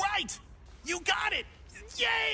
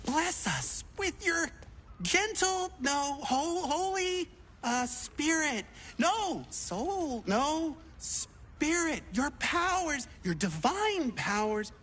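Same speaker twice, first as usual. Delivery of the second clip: fumbled prayer. Acted. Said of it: "I'm praying!".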